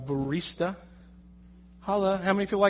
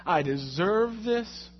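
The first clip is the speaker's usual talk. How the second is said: complaining to God; 4 semitones higher, slower than usual. Retold or imitated. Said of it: "I was just like".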